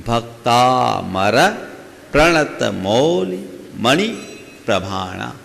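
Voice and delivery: भक्तामर प्रणत with weight on "bhak" and the syllable before "pra"; measured recital, भक्तामर drawn out with a firm "bhak-taa"; stress before conjuncts. Shown as a demonstration. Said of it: "पूर्ववर्ती अक्षर पर जोर देना पड़ेगा".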